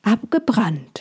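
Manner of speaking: whispered, shocked question. Acted. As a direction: breathe the word in disbelief. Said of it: "fragte Molchi".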